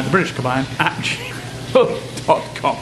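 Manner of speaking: slow, careful reading of the email address; slow dictation. Shown as a demonstration. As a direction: spell it out slowly so viewers can note it. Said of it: "K A B A Y A N".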